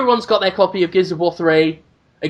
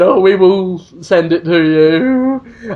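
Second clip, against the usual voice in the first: mock publisher reply; 4 dB louder, slower than usual. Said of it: "they said".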